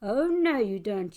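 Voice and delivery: put-on a brave child yelling at a fiend; indignant shout. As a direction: stop the monster in its tracks. Child confronts monster.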